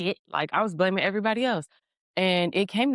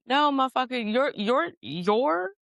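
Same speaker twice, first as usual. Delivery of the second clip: high, insistent scolding comeback; exasperated correction; 9 semitones higher, slower than usual. Retold or imitated. Guides answering back to the blaming driver, exasperated correction. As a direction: imitate guides setting someone straight.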